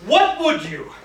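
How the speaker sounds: loud, high, drawn-out demand. Acted. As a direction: cut in over the ramblers, loud and slow. Cuts in on rambling petitioners.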